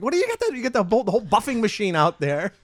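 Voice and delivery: high surprised question; mock amazed. Teasing airport staff, high mock surprise. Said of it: "I'm like".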